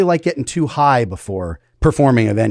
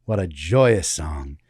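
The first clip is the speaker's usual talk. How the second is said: slow, half-hearted interviewer impression, sinking lower at the end; James Lipton; 4 semitones lower, 3 dB quieter, slower than usual. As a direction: savor it like a mock-solemn talk-show host. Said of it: "this half-assed James Lipton impression".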